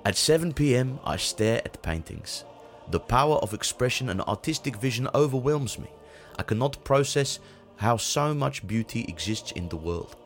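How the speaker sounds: put-on light Dutch accent, deadpan. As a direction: read it in a mild Dutch accent. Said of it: "I hope that the Dutch voice will be".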